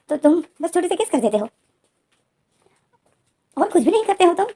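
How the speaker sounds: a retold, tearful lover's rant; upset tearful outburst. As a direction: push him away and pour out the grievance. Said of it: "रोने लग जाता है".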